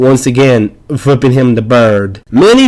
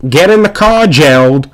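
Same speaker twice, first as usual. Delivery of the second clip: impatient yell; 3 semitones higher than usual. Acted. Tony yelling at Gerald on hood.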